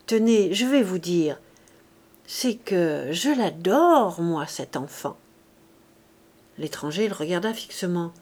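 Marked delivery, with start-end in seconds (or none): 0.1-5.2 slow, drawn-out confession of fondness; a touch of homely tenderness; good-natured simplicity. Acted. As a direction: confide it with mock-simple sincerity. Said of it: "une singulière expression de bonhomie".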